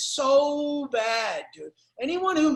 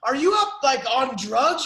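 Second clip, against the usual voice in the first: incredulous question; 4 dB louder than usual. Retold or imitated. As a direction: act stunned at the change. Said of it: "people are like".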